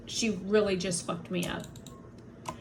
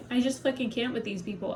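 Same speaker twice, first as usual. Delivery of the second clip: normal talking voice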